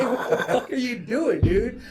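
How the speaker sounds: high-pitched, laughing protest; retold indignant challenge. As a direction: retell the confrontation through a laugh. Retelling confronting cop searching car.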